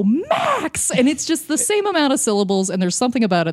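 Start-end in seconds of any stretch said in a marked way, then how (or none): 0.0-0.9 high sing-song call; a dad answering his kid; dad calling back. Retold or imitated. Dad calling his son back, sing-song. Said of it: "and he'll go".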